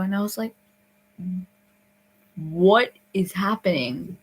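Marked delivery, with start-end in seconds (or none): 2.4-4.2 slow, drawn-out disbelief; bewildered. Retold or imitated. Camper baffled by the accusation, bewildered. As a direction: stretch it out, baffled.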